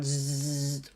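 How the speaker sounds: chipmunk brain stirring, puzzled, then pleased; sleepy chipmunks waking. Retold or imitated. Instructor voicing the brain chipmunks noticing something new, waking up curious. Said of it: "The chipmunks are really going".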